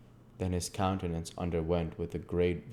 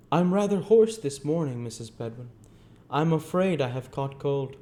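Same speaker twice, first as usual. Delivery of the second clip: put-on higher, louder character voice for a kindly old gentleman; old gentleman, croaky cold; 8 semitones higher, 6 dB louder than usual. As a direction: grumble about a morning cold in an old gentleman's voice.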